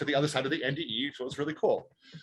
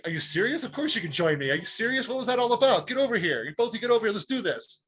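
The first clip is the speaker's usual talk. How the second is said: retold incredulous, eager invitation, higher pitched; eager welcome; 6 semitones higher than usual. Telling the stranger he can join, eagerly. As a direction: wave them over with animated disbelief.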